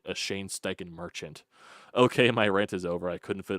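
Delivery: heated read of a fan's angry message; reading a text rant aloud. Acted. Host reading a fan's text, fired-up read. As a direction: read it like you're venting for him.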